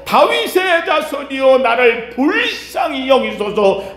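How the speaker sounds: high, pleading mock cry. Blind beggar crying to Jesus for mercy, high pleading call. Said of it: "그가 더욱 크게 소리 질러".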